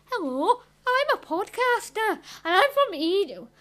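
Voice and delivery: lightly put-on Scottish accent; mock Scottish podcaster introduction. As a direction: slip into a playful Scottish accent. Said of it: "I did a Scottish accent".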